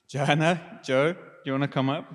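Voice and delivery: half-joking dentist summons, breaking into laughter. Pretend. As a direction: call them up like a receptionist, laughing at yourself. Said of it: "do this in my least, uh, dentist-y voice".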